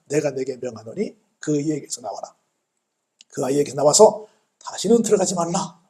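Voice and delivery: restrained retelling of a command; solemn command. Retold or imitated. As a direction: recite the order with measured authority. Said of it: "귀신을 향해서 명령하시잖아요". (차분하게 읊는 명령조)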